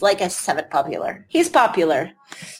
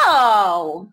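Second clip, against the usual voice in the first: shouted no; 4 semitones lower, 3 dB louder than usual. Real, not acted. Protests at the date idea.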